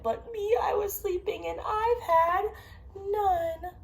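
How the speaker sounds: loud upset bear. Acted. Parent voicing the bear's complaint to a child, loud upset wail. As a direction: complain like a grumpy bear woken up.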